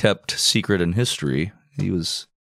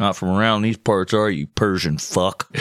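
put-on Southern accent. Alexander sizing up a Persian like a cowboy, Southern accent. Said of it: "wasn't a Southern accent".

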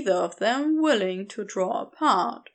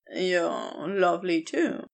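honest; 6 semitones lower than usual. Acted. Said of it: "tells him honestly".

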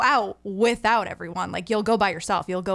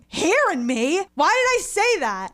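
put-on Maine accent; 7 semitones higher, 3 dB louder than usual. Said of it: "an accent comes out".

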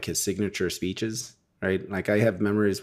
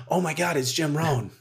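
gasp, then high mock fangirl excitement; imitating starstruck awe; 7 semitones higher than usual. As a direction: re-enact freaking out at meeting your idol. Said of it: "that you get starstruck with".

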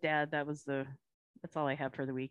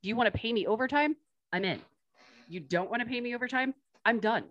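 sassy; 5 semitones higher, faster than usual. Retold or imitated. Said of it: "and was like".

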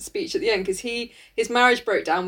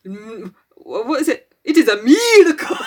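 put-on French accent; 5 dB louder than usual. Woman imitating the transformed Beast's voice, mock French accent. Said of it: "that's French".

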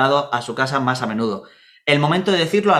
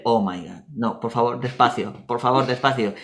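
mock pleading; 3 semitones lower than usual. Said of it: "cuando empiezas el".

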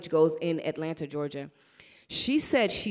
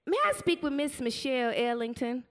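a hint of a lilting, higher official caller; mildly raised polite phone voice; 6 semitones higher than usual. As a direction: lightly voice the airline lady asking for her. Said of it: "this woman says".

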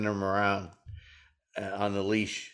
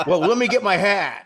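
high and loud through laughter; cracking up at his own punchline; laughing; 9 semitones higher, 8 dB louder than usual. Real, not acted.

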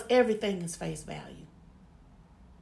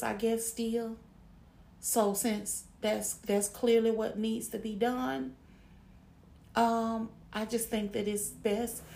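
calm demo. Shown as a demonstration. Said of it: "I'll calmly and just say".

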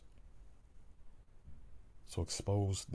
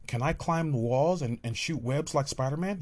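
put-on higher, louder excited kid; child voice; 5 semitones higher, 5 dB louder than usual. Child asking daddy about Spider-Man, high and eager. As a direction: ask it like a thrilled little boy.

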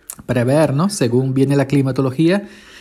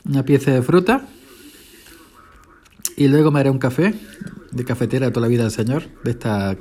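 talking while chewing; mouth full. Real, not acted. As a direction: speak through a mouthful. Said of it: "hablar con la boca llena".

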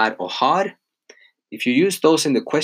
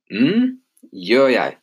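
slow drawn-out answer; much slower than usual. Shown as a demonstration. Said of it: "the blank".

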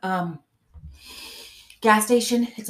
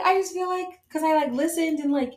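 higher, light imitation of a relieved friend; imitating Mackenzie; 7 semitones higher, 3 dB louder than usual. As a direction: replay the friend's words a bit higher. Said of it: "she was like".

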